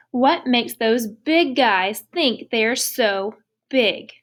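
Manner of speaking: slow, mildly angry challenge; slow indignant elephant. Acted. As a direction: drag out each word in mock outrage. Teacher reads elephant's angry line.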